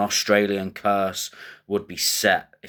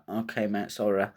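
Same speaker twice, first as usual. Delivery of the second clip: scared backing-down; 6 dB quieter than usual. Acted. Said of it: "if you're scared of fighting".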